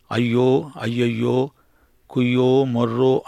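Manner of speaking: imitating merchants wailing over ruined Babylon; hammed-up lament cry, the preacher mimicking the mourners; mock wailing. Preacher imitating merchants mourning Babylon, mock wailing. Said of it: "అంటూ ఏడుపు".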